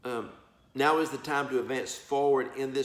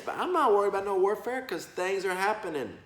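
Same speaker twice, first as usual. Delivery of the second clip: defiant; 7 semitones higher than usual. Real, not acted. Defiant preacher dismissing warfare.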